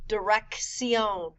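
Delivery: Dirección slowly, a K then an S sound; double C demo. Shown as a demonstration. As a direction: split Dirección to show both C sounds. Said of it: "The first C sounds like a K".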